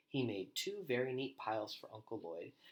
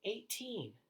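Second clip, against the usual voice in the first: called total; 12 semitones higher than usual. A narrator's reading. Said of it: "yelled from upstairs".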